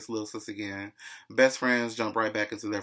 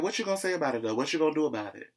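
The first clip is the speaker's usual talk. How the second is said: mock challenge; 5 semitones higher, much faster than usual. Acted quarrel in retold argument.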